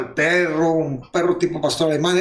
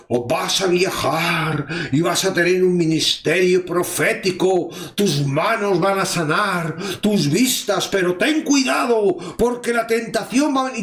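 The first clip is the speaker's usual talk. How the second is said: mock prophet. Preacher mimicking a prophet blessing a churchgoer, lightly mock-solemn. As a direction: play a false prophet laying on hands, half-mocking. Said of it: "empezar a decir".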